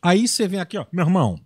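loud preacher voice, fiery sermon; Silas Malafaia impression. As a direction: preach hard, shouting, meu irmão. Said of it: "você puxou o Silas Malafaia".

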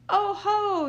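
high loud mocking call; robbers' gloating cry; robbers crying out. A narrator's reading. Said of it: "they cried".

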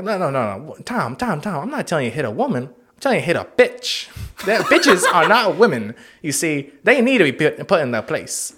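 mock-patient pimp lecture; A Pimp Named Slickback. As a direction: stress key words like a preaching pimp. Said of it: "he was trying to teach Tom".

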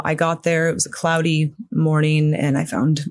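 fighting tears while retelling; choking up. Real, not acted. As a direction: voice tight, holding back tears. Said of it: "I'm choking up a little bit".

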